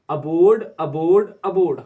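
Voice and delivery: अबोर्ड called out loud and firm; loud repeat-after-me; loud drill. Shown as a demonstration. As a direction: call out अबोर्ड for students to echo. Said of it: "हर बार तीन बार पढ़िए".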